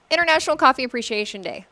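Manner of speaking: quick, confident rattle-off; fast clean reread. Real, not acted. Host rereading the day's name after stumbling, fast and sure. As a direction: nail the title in one breath. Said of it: "that was hard".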